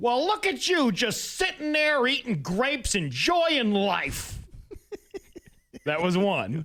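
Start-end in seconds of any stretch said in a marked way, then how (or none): 0.0-4.4 very high, chubby cartoon voice. Retelling what a chubby umpire said to a spectator at a softball tournament, chubby Disney cartoon voice. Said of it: "with a chubby uh, Disney cartoon voice".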